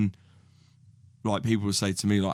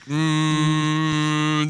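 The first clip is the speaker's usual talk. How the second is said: loud, drawn-out "mmm" on one high note; exaggerated pondering hum; long doubtful hum; 6 semitones higher, 4 dB louder than usual. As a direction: hum at length as if weighing it up. Acting out doubt over a word.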